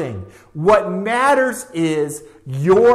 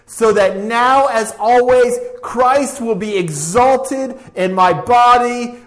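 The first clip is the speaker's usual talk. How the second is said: rising preached quote; 2 semitones higher than usual. Acted. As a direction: proclaim it like a rallying call.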